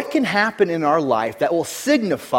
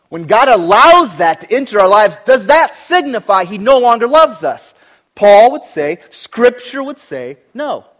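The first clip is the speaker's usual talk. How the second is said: loud, intense preaching; a pastor crying out about life's pressure; preaching at full force; 7 semitones higher, 11 dB louder than usual. Acted. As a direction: hammer each phrase home. Preacher builds to climax.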